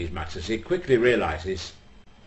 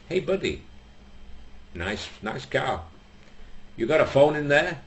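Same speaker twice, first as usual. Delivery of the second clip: brash taunt; 5 semitones higher than usual. Acted. Brash Lada driver taunts.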